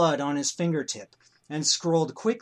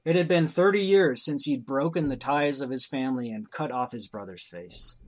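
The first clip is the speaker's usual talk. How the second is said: story narration. A narrator's reading.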